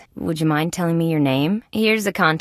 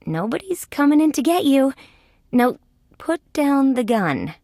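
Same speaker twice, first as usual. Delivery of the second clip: higher-pitched, careful reassurance; talking someone down; 7 semitones higher than usual. Acted. Detective to armed Artie, careful high-pitched coaxing. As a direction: ease them off the gun.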